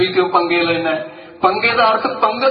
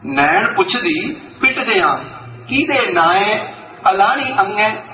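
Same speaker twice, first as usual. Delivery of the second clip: measured recitation of the couplet; reciting verse. Shown as a demonstration. Preacher quoting Bhai Gurdas about the mourning leader, steady recitation. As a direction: quote the verse in a steady intoning voice. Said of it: "Bhai Gurdas ਕਹਿੰਦਾ".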